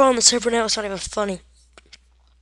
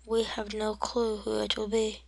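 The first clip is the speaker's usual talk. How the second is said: dramatic commentator narrating a tiny hero; playful epic sports commentary; mock play-by-play; 2 semitones higher than usual. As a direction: build suspense, then hush for the reveal. Mock commentary on own game.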